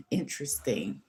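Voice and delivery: breathy knowing whisper of "Interesting."; a sly whispered "Interesting.". Retold or imitated. Retold reply, said differently twice.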